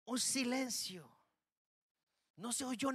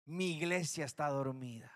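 lower, solemn repeat of "Mi iglesia está dormida"; God sadly repeating the charge, lower in pitch; 6 semitones lower than usual. Acted. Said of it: "la voz de Dios que dijo".

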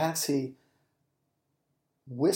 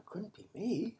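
soft denial; 7 semitones higher, 8 dB quieter than usual. Acted. John denying, soft.

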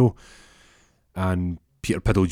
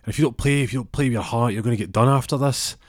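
teammate pressuring; 5 semitones higher, 3 dB louder than usual. Retold or imitated. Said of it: "He goes".

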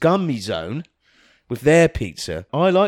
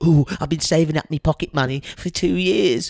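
lightly voiced excited little boy; 3 semitones higher than usual. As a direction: gush like a kid with pocket money. Plays eager little boy customer.

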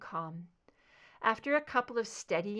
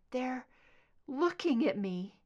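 higher, tense and uneasy; frightened whisper-like dread; 5 semitones higher than usual. A narrator's reading. Scully to Mulder, uneasy and afraid. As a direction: feel their eyes on you. Scully voiced under hypnosis.

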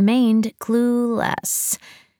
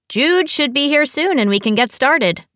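lightly voiced sister; 8 semitones higher than usual. A narrator's reading. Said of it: "Nicole said".

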